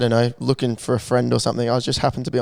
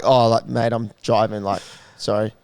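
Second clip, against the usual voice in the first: lower, softer, bored and casual to the bouncer; sound bored; 5 semitones lower, 3 dB quieter than usual. Shown as a demonstration. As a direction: shrug it off like it's nothing. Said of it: "Just be like".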